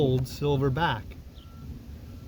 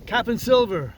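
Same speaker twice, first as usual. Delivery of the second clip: much higher, mock-puzzled exclamation; indignant cry; 7 semitones higher than usual. A narrator's reading. Captain scoffs at Silver's new title, crying out. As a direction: cry out the name in disbelief. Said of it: "cried the captain".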